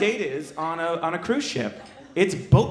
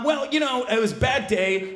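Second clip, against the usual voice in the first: own voice for her; 5 semitones higher than usual. Retold or imitated. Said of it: "so I'll just do mine".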